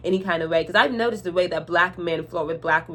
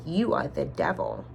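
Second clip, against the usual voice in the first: ominous low accusation; 6 dB quieter than usual. Retold or imitated. Customer damning the cashier as the devil, deep and slow. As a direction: drop way down, slow and grave.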